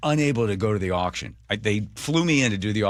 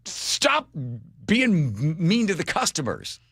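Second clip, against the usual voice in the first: mock scolding; 8 semitones higher than usual. Mock advice to Lash.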